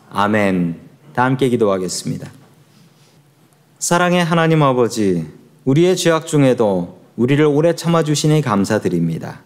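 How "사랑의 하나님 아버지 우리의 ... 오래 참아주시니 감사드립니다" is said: earnest prayer voice. Acted. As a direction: pray aloud to the Father, steadily. Leads a prayer. (기도하는 말투)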